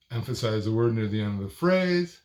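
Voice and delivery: demonstrating end-of-phrase emphasis on "phrase"; stress near phrase end. Shown as a demonstration. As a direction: lift the pitch on "phrase" at the end.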